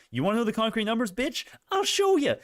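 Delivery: hammed-up threat, pitch soaring to a yelp; mock tough comeback. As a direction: fire back like a playground bully. Mock hostile reply to chat taunt.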